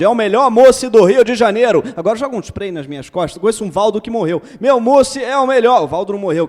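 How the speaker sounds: loud hawkers shouting on the beach; beach vendor calls. Acted. Poem of beach vendors' cries.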